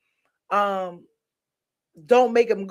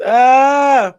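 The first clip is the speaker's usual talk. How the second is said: loud yawn; 4 semitones higher, 12 dB louder than usual. Real, not acted. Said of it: "I'm yawning".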